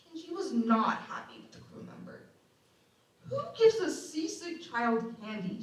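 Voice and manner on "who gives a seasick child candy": mom snapping. Retold or imitated. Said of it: "she snapped".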